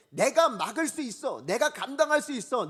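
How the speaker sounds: high, loud cocky assurance; overconfident boast. Acted. Preacher voices someone proud facing attack, overconfident boast. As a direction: boast as if untouchable. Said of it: "그 교만함에".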